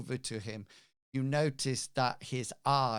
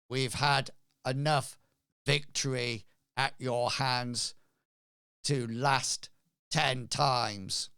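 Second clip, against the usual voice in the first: a hint of a halting, possessed voice, louder; slightly louder, stiff words with long gaps between; stunted voice; 2 semitones higher, 5 dB louder than usual. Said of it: "says in a rather stunted voice".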